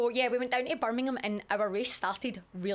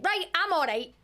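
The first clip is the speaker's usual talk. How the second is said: pitched up high and loud, falsely chipper; mock brave; 11 semitones higher, 8 dB louder than usual. After the massage, telling her friend, falsely chipper and loud. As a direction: brush it off, cheerily pretending you're fine. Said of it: "and I went".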